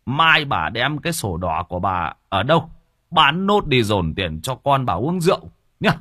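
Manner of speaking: put-on old father cursing his drunk son. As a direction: rail at the son and the wife.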